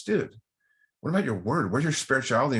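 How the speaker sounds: indignant challenge. Retold or imitated. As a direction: call him out, half mock-outraged. Roommate challenging him.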